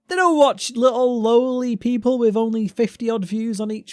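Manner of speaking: high, loud laughing protest; giggling while brushing it off. Real, not acted. Laughing protest at shadow ban.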